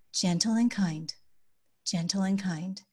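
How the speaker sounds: calm, even reminder; unhurried, soothing parent tone. Shown as a demonstration. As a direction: gently remind a child in a calm voice. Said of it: "this one we say in a calm voice".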